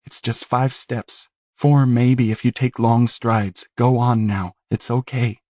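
lightly voiced boy, gently urging; coaxing Newton voice. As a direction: coax him forward, a hint of Newton. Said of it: "It was Newton's".

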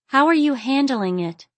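high, worried question; anxious heroine. A narrator's reading. Aziza with her stomach knotted questioning Brandon, anxious.

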